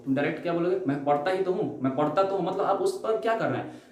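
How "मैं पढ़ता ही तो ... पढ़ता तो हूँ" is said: insist, weight on the word तो; emphatic stress. Shown as a demonstration. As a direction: lean hard on ही and तो in "मैं पढ़ता ही तो हूँ". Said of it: "जोर डाल रहे हैं".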